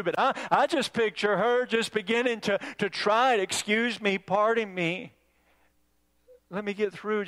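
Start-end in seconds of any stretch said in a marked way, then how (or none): 3.4-7.3 frail little voice. Acted. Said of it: "just that frail little voice".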